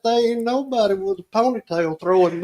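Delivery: laughing through the punchline. Real, not acted. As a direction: chuckle out the last defiant line.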